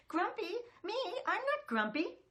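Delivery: loud, high indignant protest; cross denial shouted high; grumpy monkey. Acted. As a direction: huff it like an offended little monkey. Jim's refrain, grumpy monkey.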